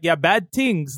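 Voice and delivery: Toronto slang in a lightly put-on accent; a hint of Toronto accent; mock Toronto accent. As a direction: imitate Toronto talk from a rapper's song. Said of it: "Toronto would be like".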